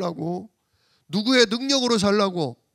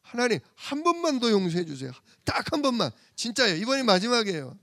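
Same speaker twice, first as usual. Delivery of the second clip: put-on pleads with God in a higher voice, as a boy promising it is the last time; a child begging for one more chance; childish pleading; 5 semitones higher, faster than usual. Preacher retelling his boyhood prayer to God, pleading higher. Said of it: "제가 어렸을 때 그랬잖아요".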